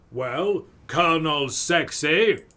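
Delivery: loud, slow, drawn-out swoon. Acted. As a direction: gush over the Colonel. Sprinkles gushes over Colonel.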